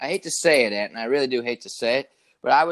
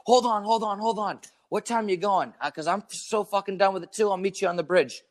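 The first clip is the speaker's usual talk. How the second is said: higher-pitched, hammed-up urgent reply; mock eagerness; 6 semitones higher than usual. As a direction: play at joining the caller's crisis. Acts out his joking reply to caller.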